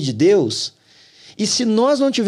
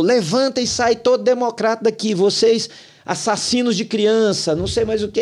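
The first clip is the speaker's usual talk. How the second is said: retold yelling; 5 semitones higher than usual. Pastor accusing Democrats before the congregation, imitated yelling. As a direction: act out the pastor's yelling at a raised pitch. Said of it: "quatro minutos ele gritou".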